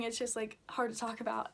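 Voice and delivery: quiet, shaky and upset; trembling voice. Real, not acted. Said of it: "I'm sorry my voice is shaking".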